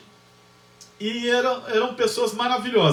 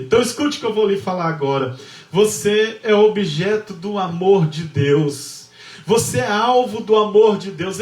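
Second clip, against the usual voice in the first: fervent preaching; 4 dB louder than usual. Acted. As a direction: press each word on the congregation. Preaching climax. (pregação fervorosa, mais alta e lenta)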